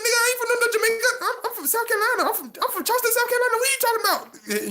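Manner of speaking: very high, rapid-fire Geechee impression; Geechee accent. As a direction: imitate an indignant Geechee homeboy. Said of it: "You know how they talk real fast, that Geechee".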